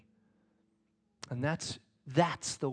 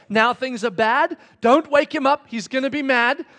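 louder and higher, rising urgency; building excitement as the storm grows; preaching at full force; 9 semitones higher, 11 dB louder than usual. Acted. Frantic storm retelling, preacher building.

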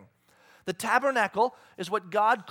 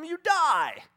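high, louder doom pronouncement; stern divine warning; 6 semitones higher, 4 dB louder than usual. Acted. God warning the people, stern and louder. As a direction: pronounce the death sentence as God.

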